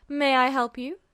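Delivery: a lightly voiced bored clerk asking; flat, uninterested official at the desk; lightly voiced bored woman at a desk.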